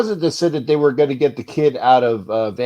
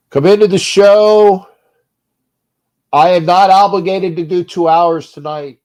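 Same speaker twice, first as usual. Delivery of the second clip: shouting; 5 semitones higher, 11 dB louder than usual. Real, not acted. Host yelling on show.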